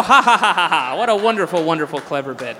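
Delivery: loud mock laughter, dripping sarcasm; sarcastic fake laugh. Sneering at the opener's bit, mock laughter.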